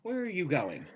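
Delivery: stunned quiet. Acted. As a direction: ask barely aloud, in shock. Stunned whisper-quiet question.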